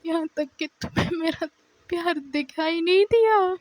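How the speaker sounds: crying. Retold or imitated. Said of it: "تو وہ ایسے روتی ہے".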